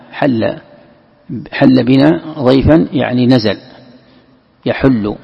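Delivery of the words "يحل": "يحل" as yaḥullu; a u after the ح in "يحل"; damma on ḥā’. Shown as a demonstration. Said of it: "حل يحل بالضم". ("يحل" بضم الحاء)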